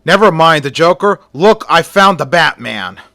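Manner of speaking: loud fast excited shout; officer screams. Acted. Officer shouting to the others about Batman. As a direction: call out the find eagerly. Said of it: "another officer screams".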